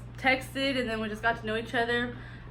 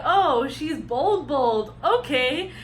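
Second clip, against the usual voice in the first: impressed; 3 semitones higher, 4 dB louder, much slower than usual. Retold or imitated. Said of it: "And then I was like".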